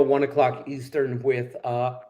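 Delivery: talking with hiccups. Real, not acted. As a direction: speak through hiccups. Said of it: "excuse me, I got hiccups".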